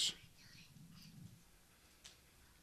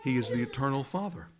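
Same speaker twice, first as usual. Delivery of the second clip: a real tremor of emotion; choked up; faster than usual. Real, not acted. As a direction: voice catching with tears on Father. Emotional declaration in sermon.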